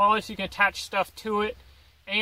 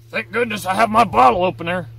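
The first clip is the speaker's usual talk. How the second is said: mock relief; 7 dB louder, faster than usual. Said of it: "and is like".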